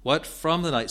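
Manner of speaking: "from" lifted high in "What from the night?"; earnest, with "from" weighted; stress on from. Shown as a demonstration. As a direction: hit "from" high and firm. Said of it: "the preposition from".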